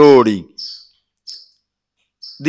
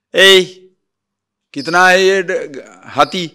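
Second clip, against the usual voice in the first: put-on drunkard calling out; 4 semitones higher, 3 dB louder than usual. Drunkard calls out to king.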